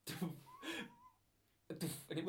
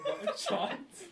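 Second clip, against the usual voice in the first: breaking into a breathless laugh, much higher; chuckling; 8 dB louder, much slower than usual. Retold or imitated. Hearing the toilet flush again, chuckling much higher. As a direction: giggle through the words. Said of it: "Chuckle again like".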